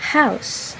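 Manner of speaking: "house" set apart, said carefully with an ow glide; model pronunciation. Shown as a demonstration. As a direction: pronounce "house" alone as a teacher's example. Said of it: "is pronounced".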